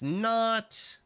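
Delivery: very slow, high, stretched okie dokie; high drawn-out okie dokie. Acted. Streamer checking music volume, a slow high goofy okie dokie.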